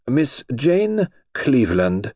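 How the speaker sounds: slow, drawn-out formal announcement; solemn voice. Acted. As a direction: present the name slowly and grandly. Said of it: "said the princess in a solemn voice".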